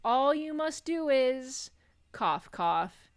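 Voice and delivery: high slow ghostly voice, spoken coughs; dying ghost choking mid-sentence; overacted death scene. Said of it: "continues coughing".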